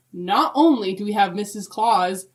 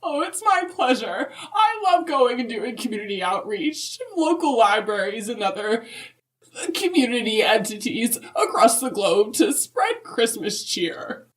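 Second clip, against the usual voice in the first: Mrs Claus voice; 2 semitones higher than usual. Acted. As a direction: play a chirpy grandmotherly Mrs Claus. Mrs Claus guest on podcast.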